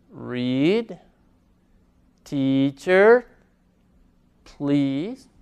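"Read", "Teacher", "Please" spaced out, each with long ee; ea as Spanish i. Shown as a demonstration. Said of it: "nuestra I en español".

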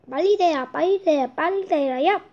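loud chanted magic spell; kids party magician. Pretend. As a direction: cast it like a showman magician. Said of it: "주문을 외우자".

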